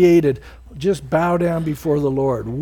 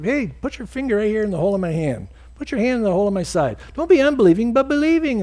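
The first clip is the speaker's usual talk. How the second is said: quick, urging voice of Jesus, rising high at the end; brisk and pleading, climbing up on believing; Jesus urging Thomas; 5 semitones higher, much faster than usual. Acted. Jesus coaxing doubting Thomas, rushing then pleading high.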